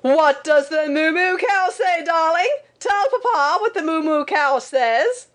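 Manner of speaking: high, stretched-out coaxing holler; =free insistent papa in high put-on voice; father's mock shout. A narrator's reading. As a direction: call it out high, pestering the baby. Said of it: "again he would shout".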